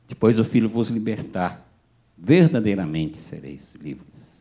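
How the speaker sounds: slow, weighty recitation; slow solemn verse. Retold or imitated. Pastor finishing the verse, slow solemn delivery. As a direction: lean on every word of the promise.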